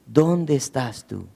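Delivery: quiet, unhurried call to the hiding man; softly searching, no anger; soft slow question. Acted. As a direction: ask slowly and gently. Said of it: "no llega con una actitud de enojo".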